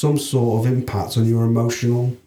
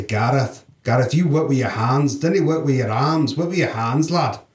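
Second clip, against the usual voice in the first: a half-hearted Scottish uncle, barely put on; lightly imitating a Scottish uncle's advice; poor Scottish accent. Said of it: "I'll attempt a very poor Scottish accent".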